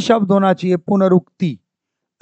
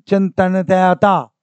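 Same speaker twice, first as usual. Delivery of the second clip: चिंतनता stretched out; very slow; much slower than usual. Shown as a demonstration. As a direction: spell out चिंतनता slowly. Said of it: "चिंतनता होता है".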